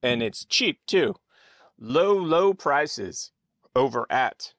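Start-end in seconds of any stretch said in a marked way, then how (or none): 1.8-4.5 mock ad pitch. Mock ad for the show.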